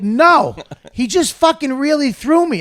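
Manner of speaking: high, loud retold objection; outraged protest. Actor thrown across the room objecting, outraged.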